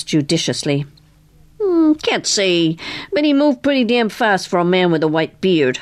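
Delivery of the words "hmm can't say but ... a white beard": lightly played old carny, thinking it over; lightly voiced carnival mechanic. Narrator voices Boozy Tim.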